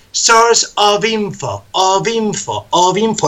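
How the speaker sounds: "Source of info" run together smoothly, slow; linked words. Shown as a demonstration. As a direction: link "source of info" as one word. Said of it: "Fijaos cómo digo".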